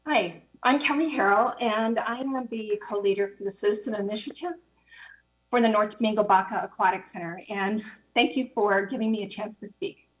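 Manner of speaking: breathless after running; winded, still catching breath. Real, not acted. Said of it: "Sorry, I'm a bit about, out of breath".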